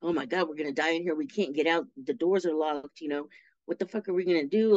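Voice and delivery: fast, rushed, imitated panic; imitating panic. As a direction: rattle it off like a cellmate in a mild panic. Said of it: "she was panicking".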